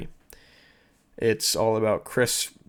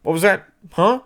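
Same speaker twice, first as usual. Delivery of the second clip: high, loud, indignant what-was-that; imitated furious challenge, rising to a yelp; mock outraged comeback; 8 semitones higher, 6 dB louder than usual. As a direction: play the hothead wheeling on someone. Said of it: "And he's like".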